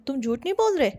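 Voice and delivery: loud accusing question, said as a charge. Shown as a demonstration. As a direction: ask it as if you already know they lied. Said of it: "जो अपनी tone है वो change करके बोलो".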